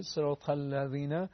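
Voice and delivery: "الذین" with tongue tip touching the upper teeth; thin, light ذ in "الذین"; tongue-tip dhal. Shown as a demonstration. Teacher showing tongue placement, thin dhal in "الذین".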